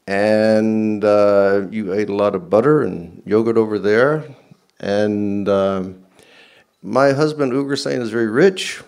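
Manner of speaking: put-on high, loud, rambling old lady; rambling old queen with dementia. Ugrasen's wife offers to pay for the butter, rambling loudly. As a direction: babble on like a muddled, generous old queen. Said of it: "she's got a bit of dementia".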